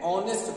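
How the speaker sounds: "ऑनेस्ट" with the h left silent; correct pronunciation. Shown as a demonstration. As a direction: begin "ऑनेस्ट" on the vowel, no h. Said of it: "क्या पढ़ते हैं?".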